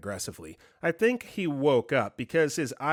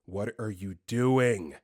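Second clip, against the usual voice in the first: lower, slow accusation; angry, dead-eyed; 4 semitones lower, slower than usual. Retold or imitated. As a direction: say it slowly with cold anger. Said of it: "Him just staring at me with, like, dead eyes".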